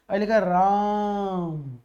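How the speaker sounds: "राम" stretched very slow and long; drawn-out name. Shown as a demonstration. Like Dasharath calling for Ram, drawn out. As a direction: call "राम" with the vowel held long. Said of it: "इसको खींच के बोलते हैं".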